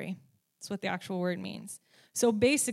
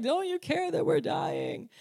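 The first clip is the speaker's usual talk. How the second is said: mock panicked plea; 6 semitones higher than usual. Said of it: "and they're like".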